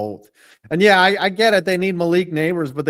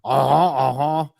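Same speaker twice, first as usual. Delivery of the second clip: attempted Cajun accent. Shown as a demonstration. Host attempting an accent for his co-host, mock Cajun. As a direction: try a mock Cajun grunt of agreement. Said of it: "the only way to do a Cajun accent is to say".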